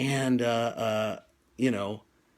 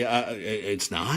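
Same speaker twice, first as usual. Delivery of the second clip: 1 surprised; 5 semitones lower, 4 dB quieter, much slower than usual. Retold or imitated. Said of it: "and I say".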